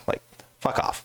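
a private unvoiced aside; whispered aside. Real, not acted. Telling the listener his real thought, whispered aside. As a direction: whisper it under your breath.

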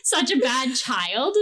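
amused, giggling as you admit it; laughing through the words; laughing confession. Real, not acted. Laughing while confessing a prank lie.

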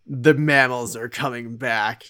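slow, dramatic reveal; ominous announcement. Retold or imitated. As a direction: voice it like a dramatic trailer line. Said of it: "they're like".

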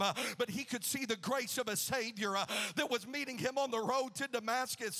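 full-force preaching in driving phrases. Real, not acted. Preacher recounts Saul's conversion to the congregation, impassioned preaching. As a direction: punch each phrase, gasping "uh" between.

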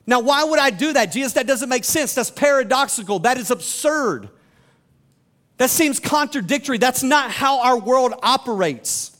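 acted disbelief, landing hard on each objection; incredulous objection. A baffled follower arguing with Jesus that forgiveness is absurd, incredulous.

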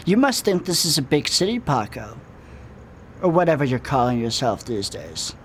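weird cop villain voice. Acted. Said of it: "How do you talk like that?".

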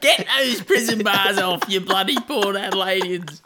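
high, loud mock sign-off rant; Eddie Maguire. Contestant inventing a TV host's sign-off for laughing friend, mock outraged shout. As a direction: bellow it like an outraged footy fan. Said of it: "what does he say?".

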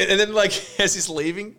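high laughing narration. Real, not acted. Retelling the ending to a friend while laughing. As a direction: tell it through giggles.

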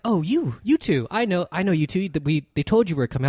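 hint of a theatrical British greeting; British accent. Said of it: "they have a British accent".

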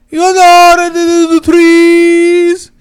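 high, loud, drawn-out mock Hispanic accent; bad Hispanic accent. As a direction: wail it in a terrible Hispanic accent. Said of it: "the worst Hispanic accent".

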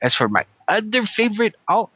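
put-on playful Mexican Spanish accent, Chicano slang. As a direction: lean into a Mexican accent like a homie greeting the crew. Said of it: "interesting accent".

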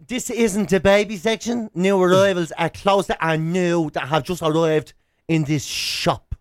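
slow, put-on sassy shop assistant. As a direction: spell it out slowly like a sassy clerk. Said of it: "the way she just goes".

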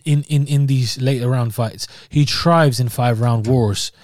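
put-on a lightly done Irish accent, slowed and emphatic; mock Irish accent. Pundit does a weak Irish accent while predicting the fight. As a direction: lean into a half-convincing Irish brogue. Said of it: "the deadest Irish accent ever".

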